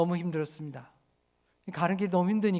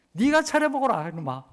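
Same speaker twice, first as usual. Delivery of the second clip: scolding parent; 3 semitones higher than usual. Retold or imitated. Pastor voices a parent scolding a child who insults the meal, mock scolding. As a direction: snap back at the ungrateful kid. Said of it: "뭐라고 얘기하면 좋겠습니까".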